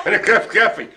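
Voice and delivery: jokey Australian twang; Australian accent. Pretend. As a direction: laugh through a bad Australian accent. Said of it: "do an Australian accent".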